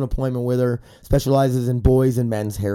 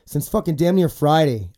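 congested, sick-sounding voice. Real, not acted. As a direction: talk through a stuffy nose. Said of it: "If you guys can't tell by my voice".

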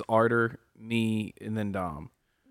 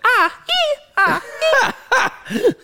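mock high moaning; 10 dB louder, slower than usual.

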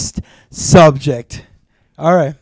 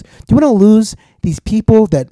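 building passionate plea; 9 semitones higher than usual. Acted. Lawyer speech building to climax.

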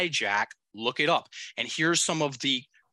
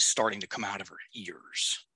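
whispering; 5 semitones lower, 4 dB quieter than usual. Real, not acted. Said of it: "whispered aside".

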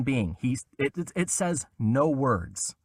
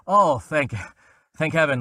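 relieved mock exclaim; 4 semitones higher, 6 dB louder than usual. Relief in the booth.

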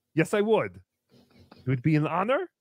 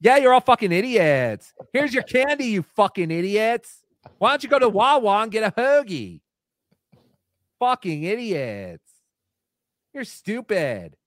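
put-on gruff grumpy comic insulting kids; Kevin Brennan impression; 3 dB louder than usual. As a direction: sneer at the trick-or-treaters. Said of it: "And there is your Kevin Brennan".

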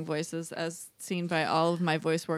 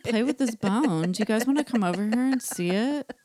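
cartoon dog; 4 semitones higher than usual. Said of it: "She sounds like this".

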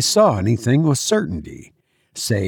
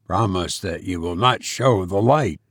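stranger pleading; 5 semitones lower, 3 dB quieter than usual. A narrator's reading.

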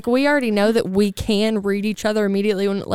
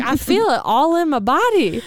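airy, knowing mock-reader voice; a hint of a dramatic psychic; mock mystical; 6 semitones higher than usual. Reader describing her own body sense, lightly mock-mystical. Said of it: "She's like".

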